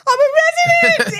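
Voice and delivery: high-pitched mock wail; imitated happy blubbering cry. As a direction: wail it out like an overwhelmed baby. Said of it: "I'm blubbering like a baby".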